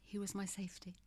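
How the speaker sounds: breathy unvoiced whisper of grief. Real, not acted. Widow speaking of her late husband, whispered. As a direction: let the words drop to a whisper, barely there.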